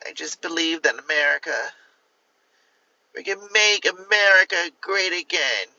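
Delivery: lightly voiced mock Kamala Harris campaign speech; a hint of a politician's stump speech, played for laughs; Kamala Harris impression. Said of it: "my best impression of Kamala Harris".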